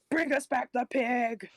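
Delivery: slow, drawn-out magical boom; booming echoing voice. Acted. Drunk Pandora booms her magic voice at the farmer. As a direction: let it echo like a god's command. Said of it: "like, echoing voice".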